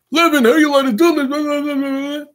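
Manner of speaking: high, slow put-on voice scolding Levin. Preacher acting a scandalized rebuke, slow and high. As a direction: drag it out high in an odd put-on voice.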